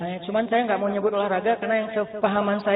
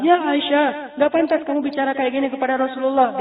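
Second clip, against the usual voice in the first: mildly raised, retold fatherly reproach; Abu Bakar; 4 semitones higher than usual. Father scolds daughter for her words to the Prophet, mildly angry. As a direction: scold her with a touch of anger. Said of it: "Terus Abu Bakar yang marah".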